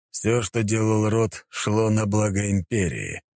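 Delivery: measured, cold imperial voice; stern emperor. Acted. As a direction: speak slow and commanding.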